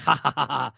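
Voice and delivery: mock ghostly "ha ha" laugh; imitated ghostly laughing. Host imitating the ghostly thing laughing at Cain, mock laugh. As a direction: spell out a spook's laugh, lightly hammed. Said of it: "you can still hear that ghostly, whatever it was, laughing".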